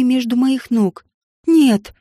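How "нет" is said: loud furious shout of refusal; furious growl. A narrator's reading. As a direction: snarl it out in rage. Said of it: "прорычала я в ярости".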